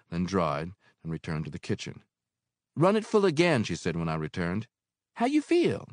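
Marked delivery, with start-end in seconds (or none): 2.7-3.6 higher, louder landlady voice; motherly landlady; Mary, older woman. Acted. Mary's voice in reading. 5.1-5.9 higher, louder landlady voice; motherly landlady; Mary, older woman. Acted. Mary's voice.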